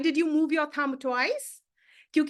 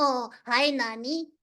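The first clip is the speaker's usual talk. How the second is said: throaty donkey puppet voice pushed from the throat; 3 semitones lower than usual. Showing how the donkey talked, for the listener to try, in a throaty donkey voice. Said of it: "It's a throaty voice".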